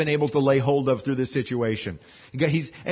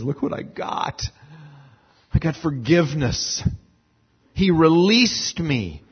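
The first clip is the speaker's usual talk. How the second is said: tender. Acted. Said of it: "the tenderness in David's voice".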